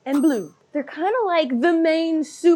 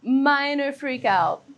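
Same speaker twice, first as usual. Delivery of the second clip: slow, dry understatement; wry understatement; much slower than usual. Acted. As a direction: play down the freak out. Ironic understatement.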